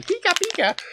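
high cheerful Pikachu squeak; happy Pikachu voice. Retold or imitated. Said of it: "happy and going".

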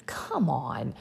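exasperated whisper; a soft, annoyed whisper to yourself; whispered aside. Real, not acted. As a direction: breathe it out under your breath.

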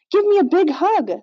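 high, swooping, playful plea; giggly. A narrator's reading. Little ghost sister begs big sister for a hug, giggly. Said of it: "Nita giggled".

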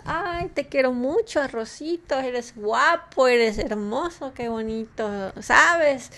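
tono de niño hablándole tierno al arroz, algo agudo; voz cariñosa de niño. Retold or imitated. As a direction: imitando con cariño a un niño. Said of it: "les decían". (niño imitado hablándole con cariño al arroz)

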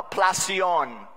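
plasion in a light Spanish accent; a touch of Spanish accent on plasion. Shown as a demonstration. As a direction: say plasion the way a Spanish speaker would. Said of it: "That's in a Spanish accent".

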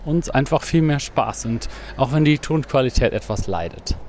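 talking while jogging; slightly out of breath from running. Real, not acted. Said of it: "wir sind grad am Laufen".

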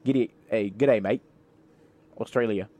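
rough attempt at an Australian accent; playful, half-convincing Australian accent. Shown as a demonstration. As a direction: greet like a put-on Aussie. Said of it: "Now I'm talking Australian accent".

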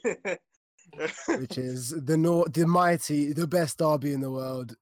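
slow grand announcer build; hyped-up build. Acted. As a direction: build it up like a commentator. Hyping the derby.

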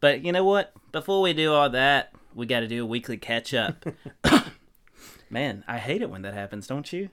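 hammed-up Aussie host voice, lightly done; put-on Australian accent, half-serious; mock Australian accent. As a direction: play a cheesy Australian bloke. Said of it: "man, your accent".

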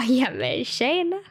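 put-on slow Skåne-accented greeting; drawn-out Skåne hello, rising at the end. Student greeting Stockholm classmates, very Skåne accent. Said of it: "tycker ju att jag pratar jätte, jätteskånska".

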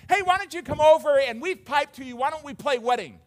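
put-on high, loud kid calling playmates over; calling over friends. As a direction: call out to friends like an eager child. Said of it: "calling over their friends".

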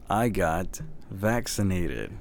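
slow, deliberate admission; slow confession. Real, not acted. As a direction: confess it haltingly, word by word. Reluctant confession.

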